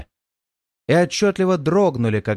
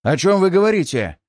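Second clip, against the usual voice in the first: impatient; 4 semitones higher, 3 dB louder than usual. Acted. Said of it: "нетерпеливо вклинился Мисис".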